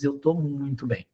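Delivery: claiming to be fine, mildly melancholic; melancholy tone. Retold or imitated. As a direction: imitate someone saying they're fine when they're not, a touch sad. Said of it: "Um tom de voz mais melancólico".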